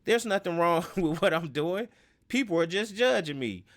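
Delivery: lightly voiced defiant player brushing off blame; a touch of stubborn denial; defensive denial. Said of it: "Now, the unaccountable thing".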